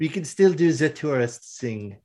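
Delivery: lightly put-on French accent; playful French-accented reply; terrible French accent. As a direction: agree in a mock French woman's voice. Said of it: "my terrible French accent".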